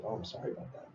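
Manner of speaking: a hushed apology to a shaken friend; whispered apology. Retold or imitated. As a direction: whisper the sorry, barely any voice. Apologising to his anxious friend.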